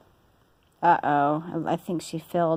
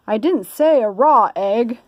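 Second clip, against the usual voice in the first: a hint of an annoyed husband; mildly irritated correction; lightly voiced Mister Rogers; 4 semitones higher, 6 dB louder than usual. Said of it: "he said".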